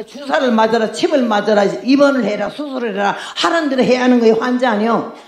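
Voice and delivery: ordinary talk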